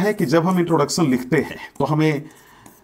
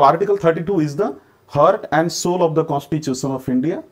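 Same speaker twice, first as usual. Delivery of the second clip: slow reading; much slower than usual. Shown as a demonstration. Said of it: "reads the question a third time".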